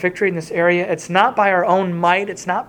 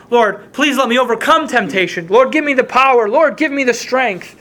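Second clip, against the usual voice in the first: eager imitated prayer; 4 semitones higher than usual. Mock of his usual prayer.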